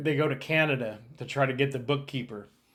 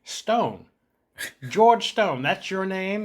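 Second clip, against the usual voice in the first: imitating Connery grilling; 6 semitones higher, much slower than usual. Connery quizzing the new recruit, higher mock interrogation. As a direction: play the gruff cop sizing up a recruit.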